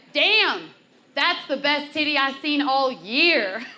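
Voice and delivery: imitated whoop of admiration; impressed guy. Guy's impressed response, acted out.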